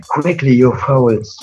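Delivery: impatient villain order. Acted. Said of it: "she added".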